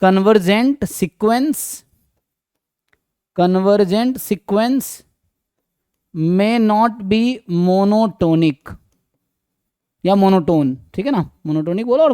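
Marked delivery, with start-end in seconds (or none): 0.0-8.7 drawn-out phrases with long pauses; slow dictation. Real, not acted. Teacher writing a remark for students, slow dictation. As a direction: say it at writing speed.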